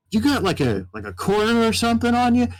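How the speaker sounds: lightly voiced hopeful cowboy; mock cowboy, asking for a coin. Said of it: "very much cowboy sounding".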